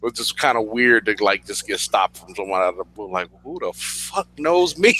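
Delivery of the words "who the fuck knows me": tag. Retold or imitated. Baffled at being recognized.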